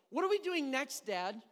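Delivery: imitated child, high and loud; pestering kid. Child badgering dad about what comes next, pestering.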